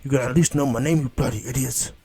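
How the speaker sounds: loud, indignant demand; Nine-Tails. Acted. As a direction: bellow it as the affronted fox. Acted fox demanding respect.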